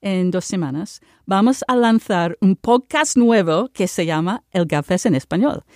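announcement read in Spanish with a Spanish accent; Spanish speech. Shown as a demonstration. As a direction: deliver the news in Spanish, lively and clear. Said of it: "I just wanna speak in Spanish".

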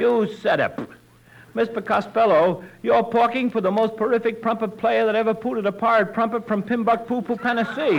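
"pooted a pirate trumpet", T as P. Acted. Tommy boasting to Costello, T as P. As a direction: swap each T for a P. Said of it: "He can't say the letter T".

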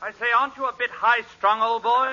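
a hint of stuffy English gentleman; prim butler, only lightly put on; lightly voiced English butler. Butler looking down on a nervous host, mildly stuffy.

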